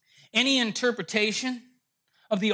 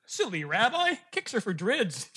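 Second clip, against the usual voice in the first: troll punchline. Acted. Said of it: "The troll says".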